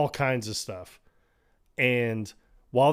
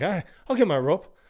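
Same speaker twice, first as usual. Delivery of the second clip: grudging mock compliance; 7 semitones higher, faster than usual. Grudging acted quote.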